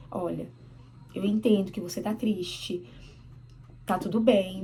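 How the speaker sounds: lightly acted patient parent, measured pauses; calm explaining. Mother explaining a no to her crying child, calm. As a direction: gently reason with an upset child. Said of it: "Eu vou acalmar ela explicando a verdade".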